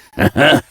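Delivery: quick high chuckle; brief eager chuckle; short laugh. Acted. Smith pleased to start working.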